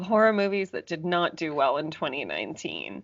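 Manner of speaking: hushed unvoiced whisper. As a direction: breathe it out as a secret. Whispered aside, measures unvoiced.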